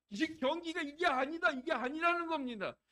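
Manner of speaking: high, loud imitation of a furious coach; retold angry protest. Preacher imitating Egypt's coach protesting the match, angry protest. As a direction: mimic a coach raging at an unfair match. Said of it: "막 화를 내고 혈기를 내는 거예요".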